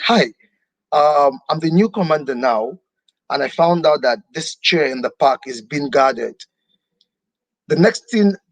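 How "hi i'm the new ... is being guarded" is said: normal talking voice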